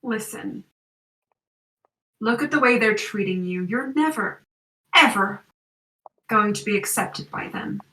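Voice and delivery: put-on American accent. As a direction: whisper doubts into his ear, American. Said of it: "it's American accent".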